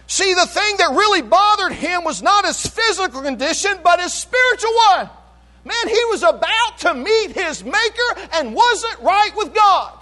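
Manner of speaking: high, emphatic preacher's voice; full-force preaching. Real, not acted. Preacher explaining Jonah's spiritual plight, full-force preaching. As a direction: drive the point home to the church.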